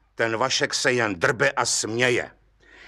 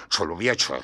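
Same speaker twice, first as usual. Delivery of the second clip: low grumble; 6 semitones lower than usual. A narrator's reading. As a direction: drop člověče into a low rumble. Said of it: "bručel soudce".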